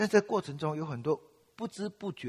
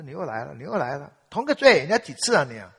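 accusing inner voice; 8 dB louder than usual. Retold or imitated. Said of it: "一个声音就在控告我".

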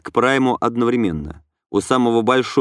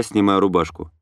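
ordinary delivery, nothing marked

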